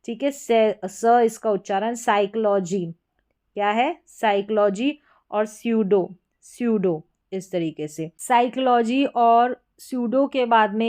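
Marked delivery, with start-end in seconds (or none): 1.9-2.8 साइकोलॉजी begun straight on an S sound; silent P. Shown as a demonstration. Teacher showing learners the silent P, silent-letter demo. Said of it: "पी silent है". 5.5-7.0 स्यूडो begun on an S, no P; silent P. Shown as a demonstration. Teacher modelling a PS spelling, silent P. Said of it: "पी silent है".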